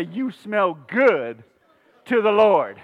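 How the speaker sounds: slow, deliberate delivery with a pause; feed the line to the congregation; slow modeled line. Shown as a demonstration. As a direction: draw out "good", pause before "to the Lord".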